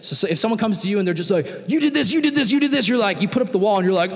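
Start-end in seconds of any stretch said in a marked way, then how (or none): 1.7-2.9 higher, jabbing accusation on each you; mock accusation. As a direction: point the finger three times. Someone accusing you repeatedly.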